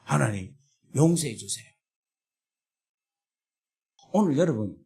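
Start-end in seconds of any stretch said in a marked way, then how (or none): 0.0-1.7 humble plea. Retold or imitated. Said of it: "회개가 나오더라니까요".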